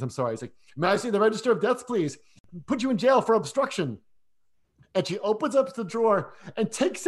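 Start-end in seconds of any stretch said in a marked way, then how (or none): 0.8-4.0 a hint of a Scottish accent, slightly higher and louder; half-hearted Scottish copper, quick on the first line; attempted Scottish accent. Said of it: "I can't do the accents".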